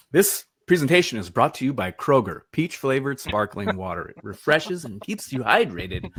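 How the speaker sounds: play-announcer ad copy; mock sponsor read. Presenter plugging his sparkling water, mock ad read. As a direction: read it like a tongue-in-cheek sponsor plug.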